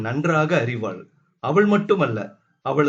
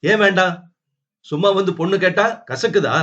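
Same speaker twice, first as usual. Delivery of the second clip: raised, quick angry challenge; 5 semitones higher, 4 dB louder, faster than usual. Acted. Wife angrily confronts her husband, raised and quick. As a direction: snap back at the husband. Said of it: "கோபமாய் கணவனை நெருங்கினாள்".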